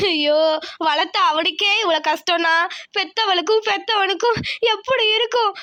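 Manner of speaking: anguished wail to God, ending in sobs; lament, then break down at the end; grieving lament. Acted.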